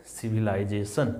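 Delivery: "सिविलाइजेशन" starting with S sound; pronunciation demo. Shown as a demonstration. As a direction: model "सिविलाइजेशन" with C as S. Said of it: "बोलते हैं इसको क्या".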